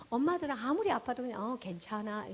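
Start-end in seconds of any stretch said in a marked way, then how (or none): 1.4-2.3 soft, understated reassurance; lightly voiced stoic mother; mother brushing off pain. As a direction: imitate a mom playing down her pain. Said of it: "엄마들의 특징".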